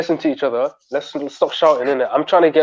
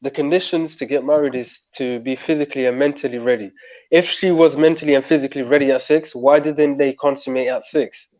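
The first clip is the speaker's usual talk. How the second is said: slow, deliberate, every word spelled out; slow right down and spell it out; over enunciating; 3 semitones lower than usual. Shown as a demonstration. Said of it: "I'm saying it slowly".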